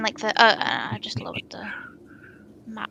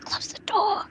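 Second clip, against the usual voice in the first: hushed in-character whisper; 9 semitones higher, 3 dB quieter, slower than usual. Acted. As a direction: whisper an order to whoever's behind you. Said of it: "whisper to the, to whoever's behind".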